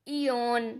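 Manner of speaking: इयोन said softly as one word, ee-yon; model pronunciation. Shown as a demonstration. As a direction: show the spoken word after spelling. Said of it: "ईओ आया ना तो इया हुआ ना".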